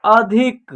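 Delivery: अधिक sounded out by syllable; pronunciation demo. Shown as a demonstration. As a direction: model अधिक clearly for learners. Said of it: "क्या उच्चारण होगा?". (अधिक का अक्षर-अक्षर साफ़ उच्चारण)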